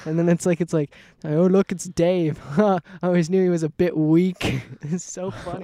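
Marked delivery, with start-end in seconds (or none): 1.2-4.6 drawn-out mock British voice; British accent. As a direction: imitate the British TikTok guy. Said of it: "in his British accent".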